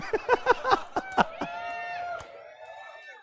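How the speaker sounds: long, squealing high laugh; high-pitched laugh. Real, not acted. Teacher cracking up over a student's example, high laughing. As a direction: burst out in helpless high laughter.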